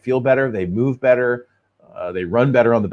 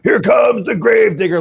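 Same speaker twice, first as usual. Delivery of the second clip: booming announcer, rising to a shout; monster truck ad; 9 semitones higher, slower than usual. Retold or imitated. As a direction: hype it like a monster truck rally ad. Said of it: "the commercial would be like".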